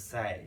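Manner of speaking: "সাই" with a wide "ai" glide, falling; modelled "সাই". Shown as a demonstration. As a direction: model "সাই" like "sigh", set apart. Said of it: "play না হয়ে হবে".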